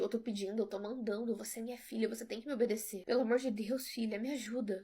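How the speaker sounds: a mother's command sliding into desperate pleading; commanding then begging. Acted. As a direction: order her to obey, then plead. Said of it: "minha mãe não falava desse jeito".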